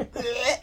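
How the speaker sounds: hacking hairball retch; short guttural cat gags; imitated cat retching. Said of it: "like, retch until they finally".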